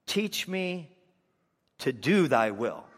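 "Teach me", pause, "to DO thy will"; stress on teach and do. Shown as a demonstration. Preacher showing David's true prayer with emphasis. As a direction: hit "do" and set the words apart with a pause. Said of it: "He said".

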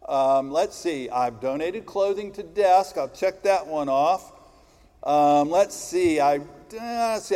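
musing through a checklist; ticking items off, thinking aloud; thinking hmm. Pretend. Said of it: "go down the checklist".

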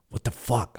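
retold disbelief, not shouted; mock-indignant protest at normal volume. Retelling his angry denial.

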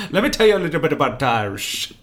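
mock Bohemian-sounding lilt; imitating the accent. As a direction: parody the host's slipping accent. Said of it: "You sounded Bohemian".

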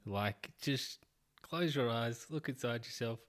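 slow, calm guiding voice. Pretend. Telling Elon to just close his eyes, gently. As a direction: ease them inward like a meditation guide. Mocking advice to meditate.

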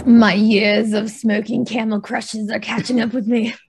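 raspy smoker's voice; hoarse growl. Real, not acted. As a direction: let the rasp sit in the throat. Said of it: "I sound like a chain smoker".

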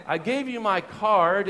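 put-on slow, high German-accented reminder. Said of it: "it was a German accent".

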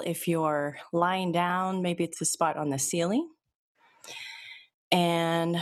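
calm, even hypnotist voice, unhurried pauses; steady guided-relaxation read; hypnosis induction. Acted. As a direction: lull them toward relaxation.

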